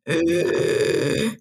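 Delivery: imitating a child's labored, wheezy breath in a mild way; a rough struggling gasp, imitated; strained breath. Mother imitating her sick daughter's labored breathing. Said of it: "breathing like".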